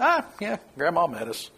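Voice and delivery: offhand mock-calm delivery; calm, casual. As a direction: toss it off as if nothing happened. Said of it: "you just calmly say".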